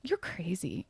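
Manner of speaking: whispered teasing aside. Real, not acted. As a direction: breathe it as a playful whisper.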